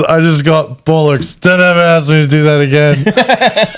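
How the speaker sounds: lightly imitated grumbling British singer; a singer impression. Singer complaining after being yelled at, mock indignant grumble. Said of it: "he, like, mumbles".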